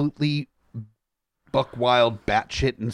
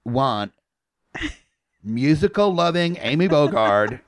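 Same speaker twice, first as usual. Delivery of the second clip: pompous mock-rally delivery with laughs; Trump impression. Host tweets as Trump at cohost, hint of a Trump voice. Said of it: "That was beautiful".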